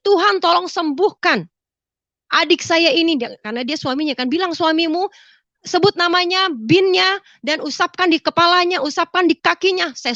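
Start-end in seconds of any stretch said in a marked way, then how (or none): 0.1-3.2 high-pitched pleading prayer; earnest retold prayer, raised pitch; fervent prayer. Doa saya, yang saya masih ingat. 4.5-9.9 high, insistent guiding voice; retold pressing instructions, raised pitch; urgent instruction.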